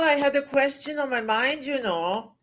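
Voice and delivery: put-on playful Germanic accent. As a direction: explain in a mock German accent. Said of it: "why don't we speak in accents".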